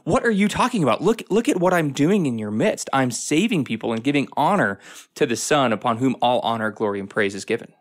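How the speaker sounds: a hint of an exasperated divine voice; Holy Spirit's voice. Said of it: "the Holy Spirit is there saying".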